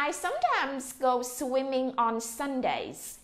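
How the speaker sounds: slow, clear reading to repeat; slow model sentence. Shown as a demonstration. Teacher slowly reads the model sentence for the class. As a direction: read slowly so they can follow. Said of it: "rồi đọc lại nè".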